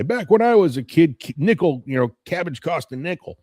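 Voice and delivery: lightly mock an old-timer's complaint; old guy voice. Mocking himself as an old guy, mild old-man voice. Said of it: "I sound like that old guy".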